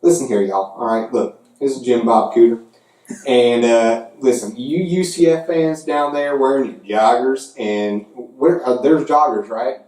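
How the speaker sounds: hint of a Southern hick accent ribbing rival fans; Southern redneck voice. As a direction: play a Southern SEC fan, Jim Bob Cooter, taunting UCF. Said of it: "Let's do the voice of the S E C".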